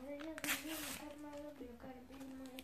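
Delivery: anxious, pleading protest; frightened, insistent objection; scared refusal. Real, not acted. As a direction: refuse in a fearful whine. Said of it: "o Guilherme tá morrendo de medo".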